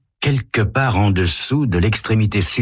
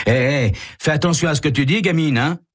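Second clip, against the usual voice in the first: put-on higher, threatening young crook; menacing thug; 9 semitones higher than usual. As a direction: warn her off, menacing. Ray threatens Carole.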